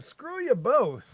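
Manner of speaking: drawn-out slow retort; slow mock retort. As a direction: say it slowly and dismissively.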